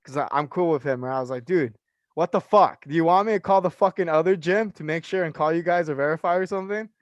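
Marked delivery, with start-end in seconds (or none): 1.4-6.9 retelling a snap at the fitness manager; retold anger. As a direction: fitness manager doubting his membership, mild anger. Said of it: "Then I got mad".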